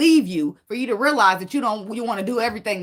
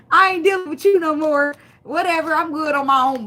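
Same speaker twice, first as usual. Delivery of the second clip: mock dismissive woman; 7 semitones higher, 5 dB louder than usual. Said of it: "'Cause she said".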